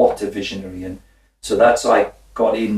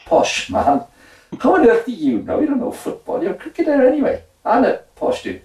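incredulous inner voice. Retold or imitated. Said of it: "And I thought".

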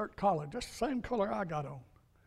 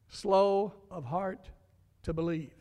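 slow emphatic repeat; slower than usual. Acted. Preacher repeats scripture phrase slowly.

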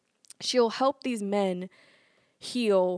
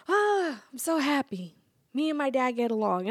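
mock happy son; 4 semitones higher than usual.

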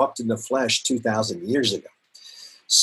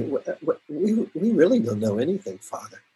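humble confession. Pretend. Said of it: "humble ourselves and say".

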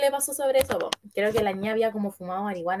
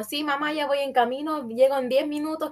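voice note to mom; 3 semitones higher than usual. Pretend. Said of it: "mando audio así como".

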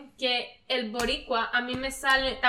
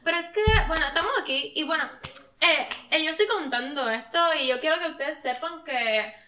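put-on Puerto Rican accent; 2 semitones higher than usual. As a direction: ramble like her, leaning on "loca". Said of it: "Entonces decía".

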